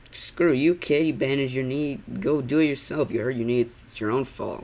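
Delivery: mock callous parent. Reactor voices parent refusing hurt kid, mock-angry. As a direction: pretend to blame the child dismissively.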